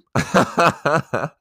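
short amused chuckle; a real little laugh at himself. Real, not acted. Laughs at ice cream joke.

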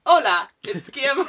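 hammed-up Spanish accent on "Hola"; a bad fake Spanish accent, laughing; mock Spanish accent. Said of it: "Translate to Mexican".

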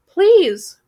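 high, loud plea; a high, loud desperate plea; crying out. Acted. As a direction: cry out in desperation. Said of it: "Gretel cried".

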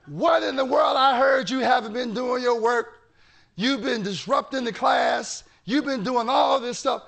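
furious mother. Retold or imitated. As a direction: act out an angry mom telling off her child. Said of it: "She is furious".

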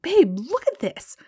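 high, loud, stretched-out call; excited yell. Retold or imitated. Yelling at partner about the sign just found, excited yell. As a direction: yell for your partner to come look. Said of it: "I'm yelling at David".

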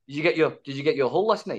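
nosy question in mimicked Scottish accent; Scottish driver. Driver quizzing his passenger about last night, mock Scottish accent. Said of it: "drivers who kind of picked us up in Scotland".

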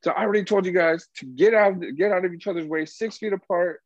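retold yelling. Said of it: "yelling at these guys".

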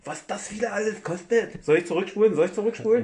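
squeaky teasing voice, well above normal; mocking high voice. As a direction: tease her in a high silly voice.

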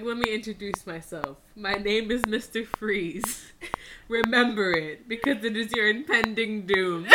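deliberate mock-Austrian villain accent; Mister Freeze. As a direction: introduce yourself as a lightly voiced Arnold villain. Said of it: "the way he talks".

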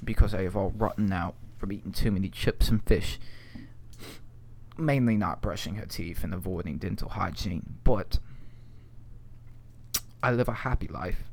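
put-on posh British accent. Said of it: "as a posh man".

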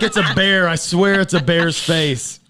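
laughing mock insistence. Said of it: "You're like".

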